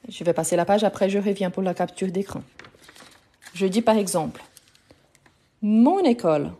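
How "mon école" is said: "mon école" with the n carried into école; liaison. Shown as a demonstration. Teacher showing a learner the liaison, linked "mon école". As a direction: link "mon école" as mon-nécole. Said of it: "Pour faire la liaison".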